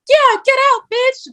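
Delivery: high, loud jeering yell from behind; mocking jeer. Saleswoman jeering at a customer behind her manager. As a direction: egg it on like a cheeky sidekick. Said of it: "And I'd be like".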